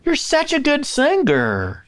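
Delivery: high, slow Southern drawl with a k on singer; Southern belle compliment; Southern accent. Shown as a demonstration. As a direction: singer said singker, sweet and high.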